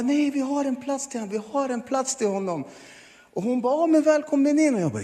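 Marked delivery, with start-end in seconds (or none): 0.0-2.6 sister calling out. Retold or imitated. Sister calls from the back. 3.8-4.7 high, loud, bright welcome; sister's cheerful call. Retold or imitated. Sister waving him into the church, high loud welcome.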